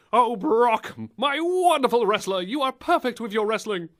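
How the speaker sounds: high, gushing mock adoration; Paul Heyman. Mock manager swooning to his wrestler, high and adoring. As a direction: gush over your wrestler in a high put-on voice. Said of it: "Yes, I am Paul Heyman".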